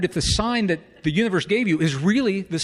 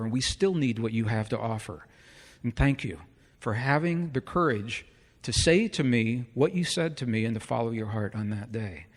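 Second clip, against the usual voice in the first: sincere; 3 semitones lower, 3 dB quieter than usual. Retold or imitated. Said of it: "this is what he said".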